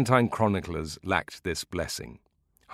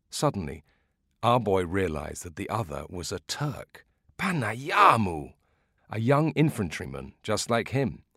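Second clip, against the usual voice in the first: a hint of a village elder building suspense; old man drawing out the suspense for eager listeners; old storyteller; 3 semitones higher than usual.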